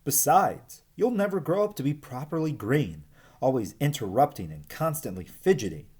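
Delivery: a hint of a fussy old snake; lightly voiced scolding snake. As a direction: scold the youngster mildly. Ribbon scolding Verdi.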